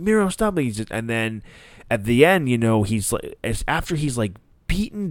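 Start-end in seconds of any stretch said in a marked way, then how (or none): 0.0-0.6 much higher, strained mock monster roar; imitating Miro demanding answers; Miro raging. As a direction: bellow it like a furious brute beating someone. He's just like.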